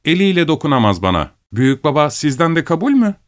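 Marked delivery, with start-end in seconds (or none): 1.5-3.2 high-pitched coaxing question; young questioner. A narrator's reading. Asking grandfather for his consent, high and eager. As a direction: put it to grandfather in a higher voice.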